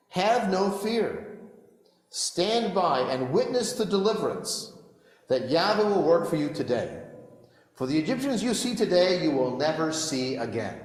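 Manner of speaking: reassuring. Acted. Moses reassures the people.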